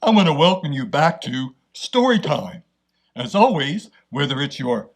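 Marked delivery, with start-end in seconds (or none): 0.0-2.6 put-on bright, friendly welcome to kids; upbeat storytime host; cheerful host greeting. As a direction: greet young listeners like a kids' show host.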